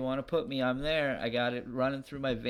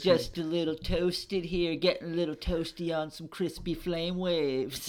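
surfer dude; 3 semitones higher than usual. Acted. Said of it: "the surfer voices".

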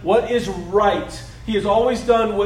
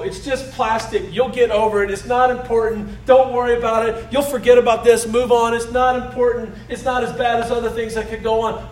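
dismissive parent; 3 semitones higher, 4 dB louder than usual. Retold or imitated. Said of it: "you and I don't go".

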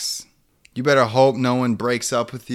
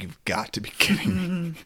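exasperated disbelief; 6 semitones higher than usual. Retold or imitated. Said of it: "everyone's like".

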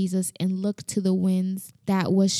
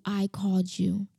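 whispered; 3 semitones lower, 3 dB quieter than usual. Acted. God's voice, quiet emphasis.

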